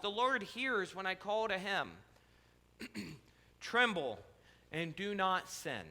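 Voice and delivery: measured, solemn reading of a psalm; lightly intoned Bible reading; scripture reading. Acted. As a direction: read the psalm like a prayer. Reads Psalm four aloud.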